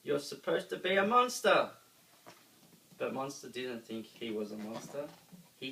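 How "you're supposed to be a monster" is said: scolding shout. A narrator's reading. Group scolding monster.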